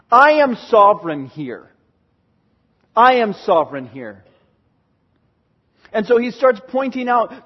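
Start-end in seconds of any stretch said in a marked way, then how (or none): 0.1-1.7 louder, emphatic, stress on I; firm ringing statement; sovereign declaration. Acted. Repeats God's claim twice. 2.9-4.2 lower, settled repeat with stress on I; low echo. Acted. Second, lower take.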